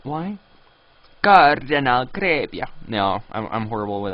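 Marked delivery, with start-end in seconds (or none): 1.3-2.7 loud, hammed-up attempt at French; bad French accent. Gamer asked by a listener to say it in French, badly faked French accent. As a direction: try a French accent and botch it. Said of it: "Say it with a French ac".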